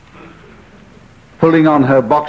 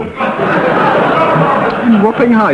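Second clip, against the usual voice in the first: high, drawn-out incredulous query; slow, lightly astonished echo; mock incredulity; 9 semitones higher, much slower than usual. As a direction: question it in high-pitched disbelief. Panellist queries the absurd location.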